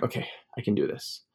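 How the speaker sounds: unvoiced self-pep-talk whisper. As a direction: whisper it to yourself. Calming himself down.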